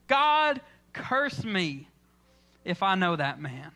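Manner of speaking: indignant curse. Retold or imitated. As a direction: start on a shout and let it drop. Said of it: "And now he's saying".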